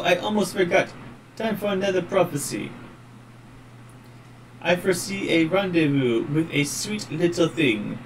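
put-on lightly French-accented dandy, playful and teasing; a touch of a French charmer, tossing off a prophecy. Flirty rogue taking his leave, mild French accent. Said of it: "the one guy who's supposed to have a French accent".

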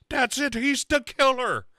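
high, eager mock accusation; mock Sarah. Friend mocking Sarah's leap to a verdict, high and eager. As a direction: jump to the verdict in a squeaky voice. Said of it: "Sarah's like".

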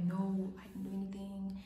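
hushed, scared denial under breath; whispered denial. Retold or imitated. Questioned by the teacher, a scared whisper. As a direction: whisper it so nobody hears. Keeping quiet while questioned.

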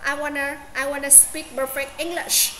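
English ending with a clear sh; English finishing on a full sh; final sound lifted. Shown as a demonstration. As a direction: say the sh of English at the end. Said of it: "English cuối cùng mình cũng đọc nó lên".

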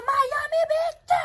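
grito animado e esticado; empolgada. Real, not acted. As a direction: gritando Miami Beach bem alto e lento. Excited showing the view. (mostrando a vista da praia, gritando animada)

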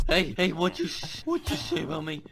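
fake drunk voice. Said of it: "funny drunk voice".

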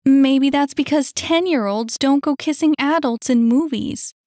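high, loud scolding comeback; indignant retort. Acted. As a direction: put the kid in their place. Quarrel, Annie retorts.

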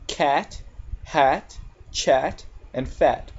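"cat, hat, chat, and fat" with the short A; short A examples. Shown as a demonstration. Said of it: "The most common A sound".

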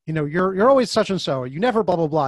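acted-out nagging reproach; mock berating. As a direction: imitate a parent telling you off. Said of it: "whoever would berate you".

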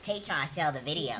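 low slowed-down voice; deep voice. Acted. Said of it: "That nigga got a voice changer".

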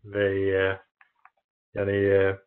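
halting Turkish with foreign accent; foreigner broken turkish. Real, not acted. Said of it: "yani Türkçem çok, e, iyi değil".

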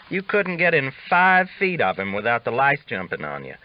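a hint of a cocky old cowhand spinning a yarn; Augustus, teasing. Augustus voiced by narrator.

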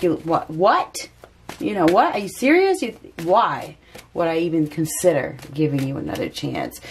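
mock outrage with a squeak of disbelief on serious; a spurned woman, scoffing and incredulous; bitter indignant disbelief. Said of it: "She's like".

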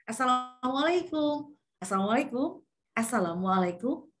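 "Assalamualaikum" sung lightly, with varied rise and fall; rhythmic intonation. Shown as a demonstration. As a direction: give each "Assalamualaikum" its own melody. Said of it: "Jadi diiramakan".

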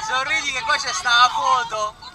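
excited on a ride. Real, not acted. Ride photo on the drop.

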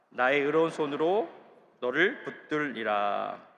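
slow, loud congregational reading; slow solemn unison reading; scripture reading. Acted. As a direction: read the verse together, slow and firm.

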